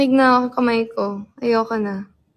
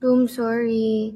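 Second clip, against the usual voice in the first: slow sorry; much slower than usual. Shown as a demonstration. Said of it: "Hindi ko naman sinasadya eh".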